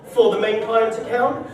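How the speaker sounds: a hint of posh office type; mock posh colleague. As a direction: lightly mimic a snooty businessman interrupting. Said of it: "one of them little posh wankers".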